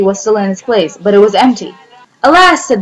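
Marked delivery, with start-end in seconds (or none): 2.2-2.6 high, louder wail of dismay; dismayed cry. Acted. Mouse finding the pot empty, wailing in dismay. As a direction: cry out at the loss.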